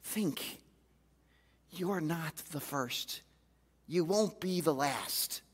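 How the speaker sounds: soft, slow and measured; deliberate pauses, low and calm; firm quiet God. Retold or imitated. God calmly correcting the complaining preacher, soft and slow. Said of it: "He says".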